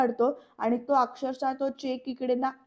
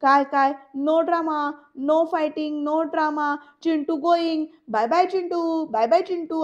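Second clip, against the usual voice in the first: higher, louder sing-song taunt; deliberate teasing; 4 semitones higher, 4 dB louder, slower than usual. Retold or imitated. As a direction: tease him on purpose like a child. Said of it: "मुद्दामून ... चिडवतो". (मुद्दाम चिडवत उंच सुरात बोलणं)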